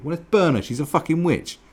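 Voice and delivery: frenzied villager calling for the burning; mob villager voice. Retold or imitated. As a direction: whip the village up to burn her.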